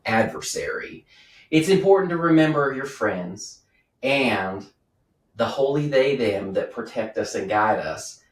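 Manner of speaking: slow, grand ceremonial speech; solemn toast. Acted. Priest toasting the lord, slow and solemn. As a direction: raise the cup and intone it slowly.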